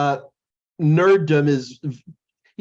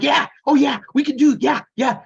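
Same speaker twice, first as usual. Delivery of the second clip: higher, louder eager yeah yeah; eager nerd; 10 semitones higher, 3 dB louder than usual. Retold or imitated. Telling how he perks up when a girlfriend asks about a tech fix, in a higher, louder, eager voice. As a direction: jump at the chance, all eager. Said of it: "then I'm like".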